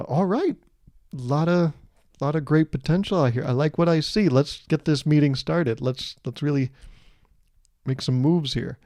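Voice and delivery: lightly voiced upbeat meeting leader; corporate speak. A newborn opening a meeting, mock corporate speak. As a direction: imitate a manager kicking off a meeting. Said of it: "you know, the corporate speak".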